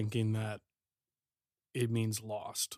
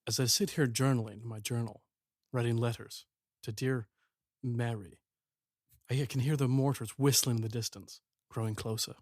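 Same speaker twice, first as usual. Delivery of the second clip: lightly voiced wartime letter. Soldier writing home before he must go fight, understated solemn voice-over. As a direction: read a letter home from the front, with pauses.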